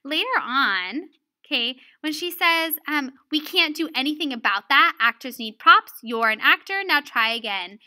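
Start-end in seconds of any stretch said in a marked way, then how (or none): 3.3-7.8 mildly firm quoted reprimand; harsh teacher. Retold or imitated. Lesson giver re-reading Miss Bunyan's reply, mildly harsh. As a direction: quote the teacher with a touch of firmness. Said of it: "I also learned that she's kind of harsh".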